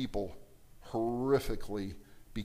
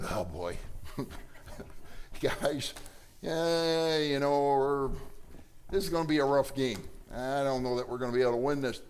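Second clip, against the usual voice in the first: gloomy coach. Pretend. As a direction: sound like a coach who's already lost. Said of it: "Imagine if you had a coach".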